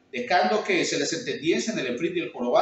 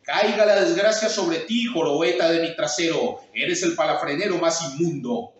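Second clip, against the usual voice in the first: louder, menacing buffalo curse; buffalo with a man's voice; 4 dB louder than usual. Acted. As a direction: curse him like a beast. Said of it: "habló con voz de hombre".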